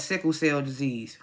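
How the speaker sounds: slow secretive whisper; hushed whisper of the big reveal; dramatic whisper. Acted. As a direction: lean in and whisper the reveal slowly.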